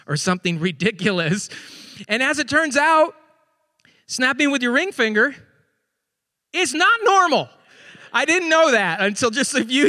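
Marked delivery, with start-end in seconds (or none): 2.1-7.5 "not" punched high and loud; stress on not. Real, not acted. Pastor revealing punchline to congregation, stressing "not". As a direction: hit "not" hard and high. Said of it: "punchline reveal".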